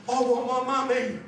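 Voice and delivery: lightly voiced pleading kitten; a mock-tearful little kitten, only lightly put on; sobbing kitten. Abandoned kitten crying for its mummy on an advert, mildly mock-sobbing. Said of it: "he's sobbing and he's saying".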